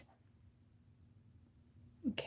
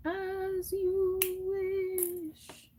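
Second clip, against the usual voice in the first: movie line quote; 11 semitones higher, 6 dB quieter, much slower than usual. Acted. Quoting Princess Bride line.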